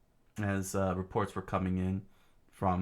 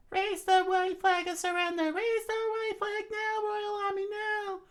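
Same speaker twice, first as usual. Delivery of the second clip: screaming princess. Acted. Princess screaming at the royal army to surrender. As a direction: order the army to give up, shouting. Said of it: "screamed out at the".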